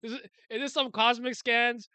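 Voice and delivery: disbelieving, fed up; exasperated rant about scan beef. Real, not acted.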